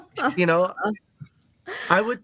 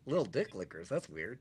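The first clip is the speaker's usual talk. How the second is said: mock puzzled; 11 semitones lower, 14 dB quieter than usual. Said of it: "originally I was like".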